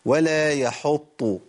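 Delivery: ولا يحط said slowly with a plain t sound at the end of يحط; wrong letter demo. Shown as a demonstration. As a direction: show the common mistake, يحط with a light taa. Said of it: "سمعنا كتير قوي من الناس بيقول".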